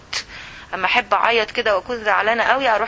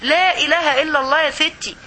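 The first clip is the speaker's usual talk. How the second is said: higher-pitched, insistent comeback; pitched-up retort in an acted argument; acted refusal; 5 semitones higher than usual. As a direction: push back at a meddling friend. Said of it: "تقول لها".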